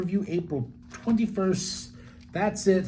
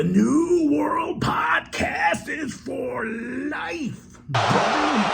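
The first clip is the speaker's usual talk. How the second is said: sign-off shout; 12 semitones higher, much slower than usual. Real, not acted. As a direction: shout the slogan out to close. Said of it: "podcast sign-off".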